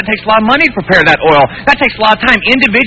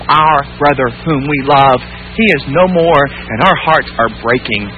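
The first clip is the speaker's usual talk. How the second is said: grieving sisters; 5 semitones lower, slower than usual. Acted. Voices the grieving sisters of Lazarus.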